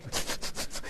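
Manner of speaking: quiet wet sniffles from crying; snuffles. Shown as a demonstration. Pastor shows congregation a crying girl's snuffles, sniffling. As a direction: sniff in little jerky bursts. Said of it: "You know what the snuffles are".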